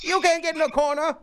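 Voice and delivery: high, loud put-on Asian accent, laughing through it; mock Asian accent. Retelling comedian's punchline to cohost, mock Asian accent. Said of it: "'cause he did it in an Asian accent".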